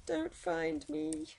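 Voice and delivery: soft, high, very slow singsong; hiding plea. Real, not acted. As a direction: plead quietly, stretching out each word. Hiding from the game's monster.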